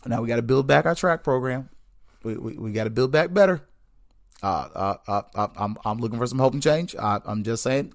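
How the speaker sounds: Barack Obama voice. Retold or imitated. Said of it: "it's my Barack Obama voice".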